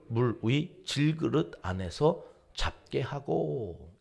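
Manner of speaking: measured, drawn-out Bible reading; scripture reading. Acted. Pastor leading the congregation in reading verses, measured recitation. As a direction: read the verse solemnly, slowing toward the end.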